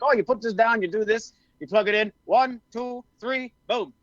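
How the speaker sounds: playful German accent impression; imitated German accent. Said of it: "a German accent or something".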